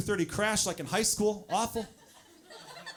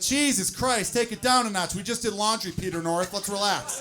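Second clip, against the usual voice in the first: mock exasperated scolding, a bit raised; exasperated partner; 2 semitones higher, 3 dB louder than usual. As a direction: play a fed-up partner complaining. Acted exasperated partner seeing the mess.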